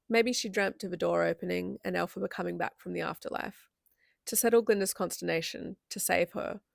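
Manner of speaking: deliberate, phrase-by-phrase book reading; audiobook-like reading; story narration. A narrator's reading. Reads a novel passage aloud.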